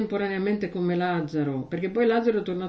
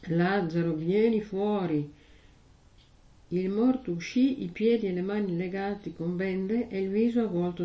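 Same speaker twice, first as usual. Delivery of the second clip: measured liturgical reading of scripture; Gospel reading. Acted. Priest reading the Gospel at Mass, solemn reading.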